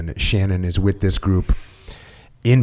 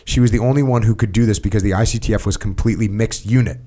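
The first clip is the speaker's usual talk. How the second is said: steady, slightly lifted read-aloud voice; reading aloud from a book. Acted. Host reading a book passage to his guest, read-aloud voice. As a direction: read the written account evenly, phrase by phrase.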